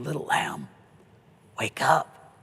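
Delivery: a hint of a loving shepherd waking a lamb; tender Jesus. Jesus welcoming a believer into heaven, lightly voiced and tender. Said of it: "And it's Jesus".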